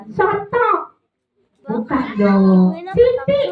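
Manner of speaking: high silly puppet guesses. Acted. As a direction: blurt wrong answers like a puppet. Puppet guesses wrong words.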